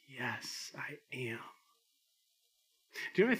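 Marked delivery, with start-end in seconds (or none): 0.1-1.4 soft, hushed mother's reply; mother bird. Acted. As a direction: answer very softly as the mama bird. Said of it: "Mama says".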